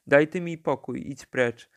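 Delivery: a sharp dismissive call, not a full shout; called out angrily. Acted. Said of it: "zawołał doktor". (odprawia chłopca podniesionym głosem)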